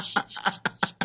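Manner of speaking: breathy false start on sh; voicing the sh he started; clipped unvoiced sh sound. Cut-off sh while explaining he wasn't shushing. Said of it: "I was gonna say".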